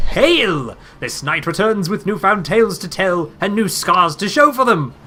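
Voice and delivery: triumphant worm knight. Acted. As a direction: announce your return like a storybook hero.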